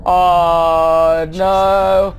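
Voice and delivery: long drawn-out groan of dread. Real, not acted. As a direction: stretch each word out in dismay. Dreading what comes next in game.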